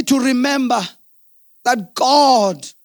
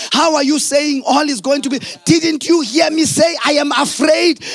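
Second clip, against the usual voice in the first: retold alarmed protest; 3 semitones higher than usual. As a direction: push the pitch up as if panicked. Retelling his frightened protest to wife.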